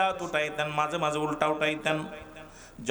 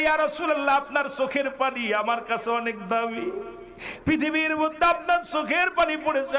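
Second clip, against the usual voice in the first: high, pleading preacher's delivery; impassioned preaching; 8 semitones higher than usual. Acted. Preacher voicing Ali pleading with the Prophet, high and devout. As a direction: lift a retold plea into preaching pitch. Preacher voices Ali's devotion.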